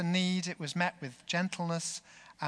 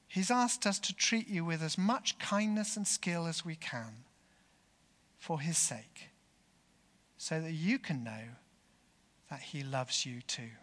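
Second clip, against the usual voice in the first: put-on young gentle voice. Young carer answering the bomber who meant harm, gently. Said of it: "young, gentle voice replied".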